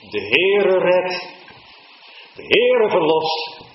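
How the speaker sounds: high, loud and slow, drawn out; fervent preaching. Acted. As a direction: proclaim each word to the whole church. Preacher at full force. (hoog, luid en langzaam preken)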